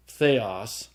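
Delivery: theos with stress on final OS; stress on accented syllable. Shown as a demonstration. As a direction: say "theos" as the-OS, deliberately. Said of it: "The grave is the accent that goes down".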